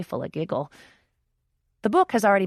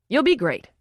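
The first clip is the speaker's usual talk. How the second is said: reassuring; 7 semitones higher, 9 dB louder than usual. A narrator's reading. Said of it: "Benny says in his reassuring voice".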